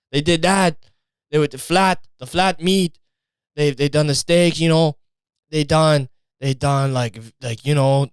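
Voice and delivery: a light put-on Italian accent, proud storyteller; lightly voiced Italian proud of his mamma. Italian guy bragging mamma invented meatball, light Italian accent. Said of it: "that's the thing with my accents".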